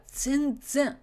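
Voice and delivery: slow, weighty "全然"; heavy emphasis. Shown as a demonstration. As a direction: draw out "全然" slowly. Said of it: "You wanna put that much emphasis".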